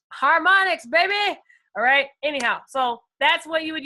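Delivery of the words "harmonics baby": thrilled shout-out to harmonics; excited cheer. Real, not acted. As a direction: hype the tool up. Cheering for a trading tool.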